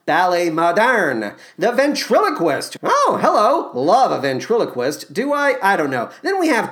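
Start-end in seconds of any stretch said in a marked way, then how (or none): none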